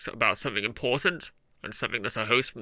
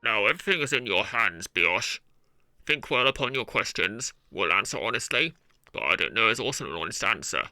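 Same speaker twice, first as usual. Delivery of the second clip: hand megaphone echo. Acted. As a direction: voice through cupped hands. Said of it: "I want to try and get an echoey effect".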